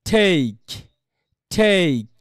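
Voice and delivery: ঠেক with aspirated ঠ and long gliding vowel; correct pronunciation. Shown as a demonstration. Teacher answers how it should sound, long aspirated ঠেক. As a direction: draw ঠেক out, puff on ঠ, glide to i. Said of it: "তাহলে কেমন হবে?".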